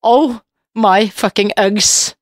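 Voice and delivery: slow, drawn-out mock English; mock posh teasing. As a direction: tease her with a slow, lofty sneer. Mock insult to friend.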